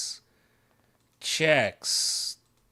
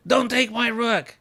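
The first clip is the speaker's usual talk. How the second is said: laughing plea; 9 semitones higher, 3 dB louder than usual. Real, not acted.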